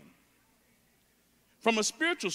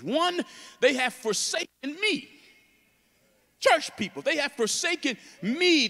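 raised, pleading preacher voicing God's complaint; fervent preaching; 6 semitones higher, 4 dB louder than usual. Preacher voicing God's hurt over straying church people, fervent. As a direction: preach it high, restarting phrases for momentum.

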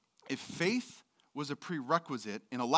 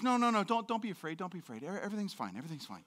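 softer, fading reassurance; calm her down gently; soothing angel; 3 semitones higher, 3 dB quieter, much faster than usual. Retold or imitated. Angel calming frightened Mary, fading softer.

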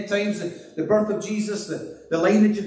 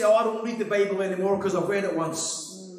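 mock dismissive quote. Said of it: "that you say".

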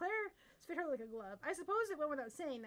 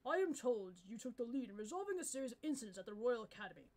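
lightly lowered regal king; kingly voice; 3 semitones lower than usual. Acted. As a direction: speak like a measured monarch. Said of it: "Very good kingly voice".

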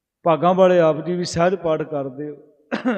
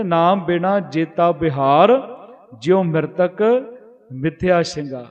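slow scripture recitation; slower than usual. Acted. Preacher reciting gurbani verse to the congregation, slow and reverent. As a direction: chant the verse slowly, each phrase drawn out.

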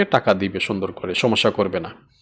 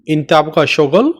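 slow teaching; slower than usual. Shown as a demonstration. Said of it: "তুমি কি কাজ করবে".

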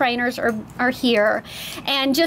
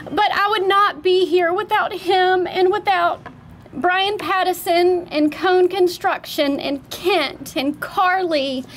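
higher, wavering voice holding back tears; emotional, teary; 4 semitones higher than usual. Real, not acted. Owner thanking family and builders at the opening, teary. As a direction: push through the thanks while near tears. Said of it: "I'm so sorry, I'm so emotional".

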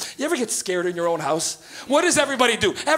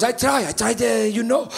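coy mother; 3 semitones higher, slower than usual. Retold or imitated. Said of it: "She goes".

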